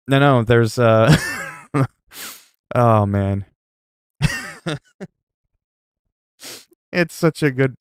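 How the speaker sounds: ordinary delivery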